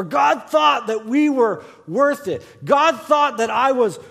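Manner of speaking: loud mock of what people say; preached quote. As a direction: declare it like a familiar slogan.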